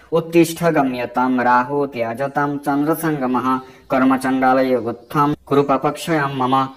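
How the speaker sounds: slow, measured scriptural recitation; Sanskrit verse recitation. Acted. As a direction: recite the shloka slowly and evenly.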